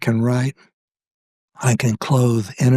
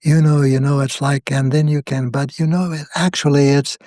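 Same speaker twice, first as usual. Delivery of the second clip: put-on valley girl; 3 semitones higher than usual. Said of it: "talking like a valley girl in Los Angeles".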